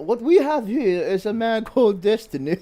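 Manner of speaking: high, loud mock nature-documentary narration; British documentary narrator. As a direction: present him like a British wildlife narrator. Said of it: "popular British, um, eco, ano din".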